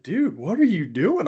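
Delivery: high, startled cry of alarm; alarmed shout. Retold or imitated. To Case flooring the gas, high alarmed yell. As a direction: yelp it like you're clinging on for dear life. Friend suddenly floors it screaming.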